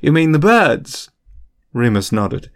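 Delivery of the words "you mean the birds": high-pitched feigned realization; innocent, swooping-up question; dawning comprehension. A narrator's reading. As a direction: act as if you have only just understood. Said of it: "tone of dawning comprehension".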